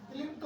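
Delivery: "क्लिम्प्ट" with a short i, as in limp; wrong pronunciation. Shown as a demonstration. Teacher showing a common misreading, mispronounced. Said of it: "नहीं क्लाइंब होता है".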